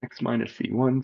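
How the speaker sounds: fighting off a sneeze; holding back a sneeze. Real, not acted. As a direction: talk while suppressing a sneeze. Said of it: "sorry, I'm trying not to sneeze".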